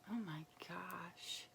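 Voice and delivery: a hushed gasp of delight; awed whisper. Real, not acted. Unboxing the gift box, she whispers in awe. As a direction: breathe it out in a soft whisper. Awed at the shea butter balm.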